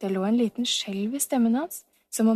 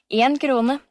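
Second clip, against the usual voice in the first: louder, proud little boast; pleased; 3 semitones higher, 6 dB louder than usual. Acted. Boy shows Camilla his coin, pleased boast. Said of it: "sa han fornøyd".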